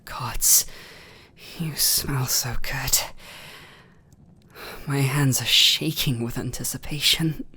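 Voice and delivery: barely holding back the craving; trembling whispered hunger; hungry whisper. Acted. Vampire craving the blood.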